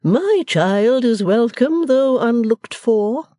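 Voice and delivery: gloomily ceremonious. A narrator's reading. Missus Wilfer receiving her daughter at the door, gloomily stately. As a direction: welcome them with grand, drawn-out ceremony. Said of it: "received them with ghostly gloom".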